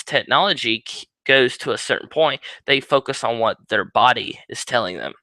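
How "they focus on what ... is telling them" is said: talking with something in mouth; words round a mouthful; mouth full. Real, not acted. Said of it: "I had something in my mouth".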